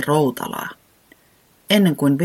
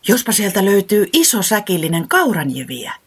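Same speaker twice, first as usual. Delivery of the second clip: higher, dreamy chick voice; hopeful; 6 semitones higher, 3 dB louder than usual. A narrator's reading. Little chick hoping for a sack of oats, higher hopeful voice. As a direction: wish aloud for oats. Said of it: "sanoi toiveikkaana".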